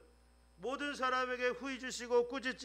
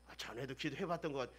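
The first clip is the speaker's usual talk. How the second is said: doubtful mutter; 9 semitones lower, 9 dB quieter, much faster than usual. Retold or imitated. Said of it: "그런 생각하지 말고".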